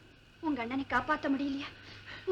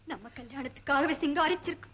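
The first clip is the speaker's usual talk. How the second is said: tearful plea. Acted. Bride pleading with fiancé, crying.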